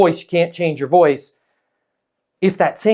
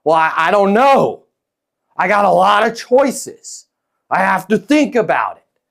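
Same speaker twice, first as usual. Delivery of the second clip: reluctant prospect; 4 semitones higher than usual. Acted. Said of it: "What's the worst thing that Kurt could say".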